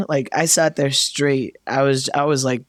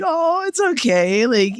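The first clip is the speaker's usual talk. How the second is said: consoling friend; 7 semitones higher than usual. Retold or imitated. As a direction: soothe them sweetly, pitched well up. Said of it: "and Stevie's like".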